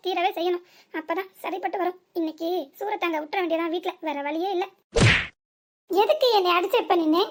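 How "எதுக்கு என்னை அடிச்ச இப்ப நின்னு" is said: loud, accusing demand; angry demand. Acted. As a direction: confront her for the slap. Angry confrontation after being hit. (கோபமான கேள்வி)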